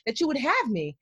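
retold angry prayer to God. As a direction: accuse God of not having her back. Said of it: "I remember literally saying".

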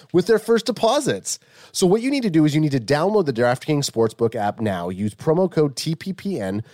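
upbeat sponsor ad voice; ad read. Acted. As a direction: sell it like a radio spot.

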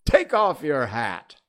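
loud, high royal command, drawn out; slow, ringing courtroom order; imperious king. A narrator's reading. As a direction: order him about like an overbearing monarch.

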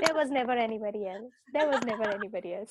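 nervous, trembling delivery; shaky voice. Real, not acted. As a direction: talk while shaking with nerves. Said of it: "I'm shaking too much".

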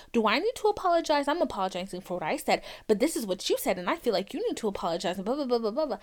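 rattled-off back-and-forth, retold; quick recital of a tiresome squabble; mock circular argument. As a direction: rush through it dismissively, like a hamster wheel. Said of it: "that fucking stupid conversation".

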